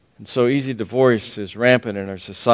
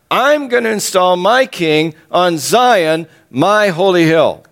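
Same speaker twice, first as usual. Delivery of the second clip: defiant God; 4 semitones higher than usual. Acted. God defiantly declaring to the nations.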